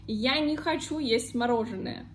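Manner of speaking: не хочу as one word, ni-ha-CHU, inside the sentence; joined не хочу in a sentence. Shown as a demonstration. Teacher giving an example sentence, не хочу joined as ni-ha-CHU. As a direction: reduce "не" to "ni" before хочу. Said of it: "I say не хочу".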